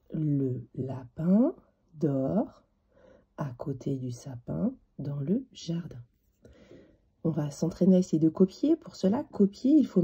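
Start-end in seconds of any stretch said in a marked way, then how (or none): 0.1-6.0 very slow, word-by-word dictation; measured teacher's dictation, pausing between word groups. Shown as a demonstration. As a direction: read it out slowly for a child to copy. Dictating the sentence for copying.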